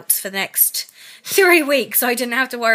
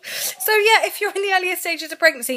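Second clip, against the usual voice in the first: still teary; 9 semitones higher than usual. Real, not acted. Still tearful, addressing viewers.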